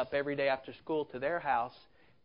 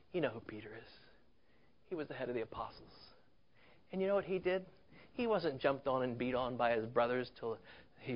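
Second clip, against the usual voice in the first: gentle consoling elder. Retold or imitated.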